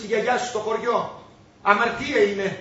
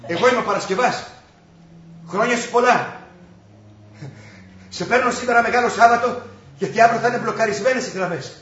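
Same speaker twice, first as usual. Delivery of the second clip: raised voice for a long-distance call; calling down phone; 4 dB louder than usual. Acted. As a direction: speak up so mother hears on the line. (δυνατά, σαν σε υπεραστικό τηλεφώνημα)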